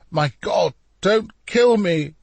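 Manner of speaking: high, slow terrified plea; pleading. A narrator's reading. Leonardo begs the prisoner not to kill him, terrified. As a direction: beg for your life, voice climbing. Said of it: "pleaded Leonardo".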